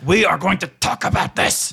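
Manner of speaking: high, exasperated warning; high-pitched, emphatic mock reprimand; scolding leader. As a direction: tell off the underling in disbelief. Leader scolding his underling.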